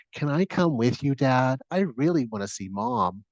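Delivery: a hint of a child asking a parent; lightly voiced pleading child. Child asking Dad to come see Mom, lightly voiced pleading child.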